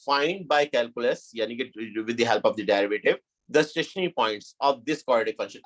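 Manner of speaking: slow dictation. Shown as a demonstration. Reading the question text aloud.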